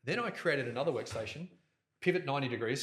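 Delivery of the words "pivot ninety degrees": turned away from the microphone, a little faint; off-mic. Shown as a demonstration. Host turned away from the mic while demonstrating. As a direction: speak side-on to the mic. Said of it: "Sorry, I'm not facing the camera or the microphone".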